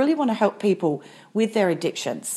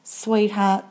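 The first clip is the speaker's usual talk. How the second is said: gentle loving plea. Retold or imitated. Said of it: "It wasn't a gentle, loving".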